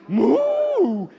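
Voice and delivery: cow moo. Acted. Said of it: "he heard it again".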